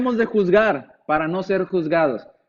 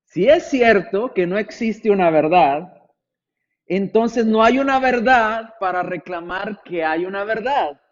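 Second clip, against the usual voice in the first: slower, careful reading, each phrase spaced out; read more slowly; slower than usual. Shown as a demonstration. Preacher rereads the philosopher's quote slowly for listeners, deliberate pace. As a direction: spell it out slowly so they follow. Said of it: "Se lo leo más despacio y ponga atención".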